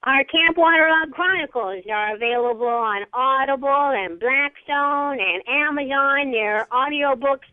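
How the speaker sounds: old cartoon character voice; a hint of a cartoon announcer; vintage cartoon voice. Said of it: "Are you in character now".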